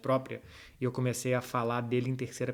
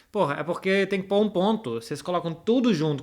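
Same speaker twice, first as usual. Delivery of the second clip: higher and louder, playfully exasperated; exasperated complaint; 6 semitones higher, 6 dB louder than usual. Real, not acted. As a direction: scold the viewers jokingly. Complains about viewers' username format. (bronca bem-humorada e exasperada)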